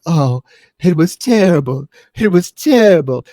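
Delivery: loud, hammed-up lament; mock-tragic survivor, pushing each phrase; overdramatic blonde. Blonde mocked while recalling the attack, overdramatic. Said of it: "she's so dramatic".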